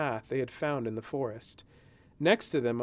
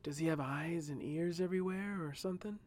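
softer, hushed question; speaking lower; 4 semitones higher, 6 dB quieter than usual. Acted. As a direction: drop the volume, keep it secret. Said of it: "speaking lower now".

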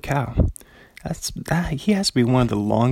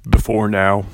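movie trailer voice. Shown as a demonstration. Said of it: "Movie voice".

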